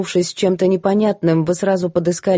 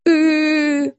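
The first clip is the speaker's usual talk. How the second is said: high wail; 9 semitones higher, slower than usual. A narrator's reading. Maid wailing.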